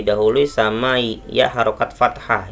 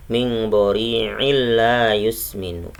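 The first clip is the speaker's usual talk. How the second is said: drawn-out tajweed chant of the verse; slow Quran recitation. Shown as a demonstration. Teacher reciting a verse for students, slow and measured. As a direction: recite slowly, stretching illa. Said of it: "Kalau disambung".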